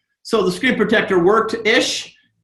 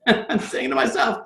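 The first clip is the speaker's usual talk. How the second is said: laughing; 4 semitones higher, 4 dB quieter than usual. Real, not acted. Laughs at his own story.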